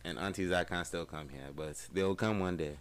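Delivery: put-on African accent, mock-earnest; lightly hammed-up African accent; playful African accent. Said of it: "when you're doing this to me".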